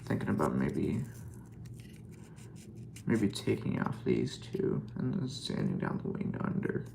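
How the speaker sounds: slightly deep, subdued voice. Real, not acted. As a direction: let the voice sink low and a little soft. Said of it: "talking in a deep voice".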